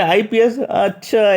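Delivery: high, amused surprise on IPS; imitating a surprised interviewer; surprised question. Interviewer reacts surprised to IPS. (हैरानी से पूछा गया सवाल)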